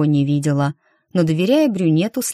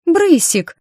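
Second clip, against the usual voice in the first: higher, louder call to the cat; 13 semitones higher, 5 dB louder than usual. A narrator's reading. Девушка зовёт кота. (громкий зов кота)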